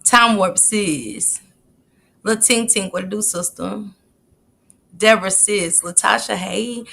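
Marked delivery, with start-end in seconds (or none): none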